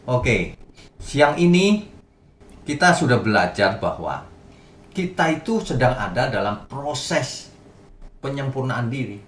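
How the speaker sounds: normal talking voice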